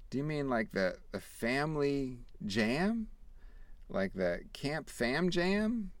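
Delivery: high, slow kindly lady voice; a sugary mock church lady; sweet church lady. Church woman gently answering a shy boy, high and sweet. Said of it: "she said something else nice".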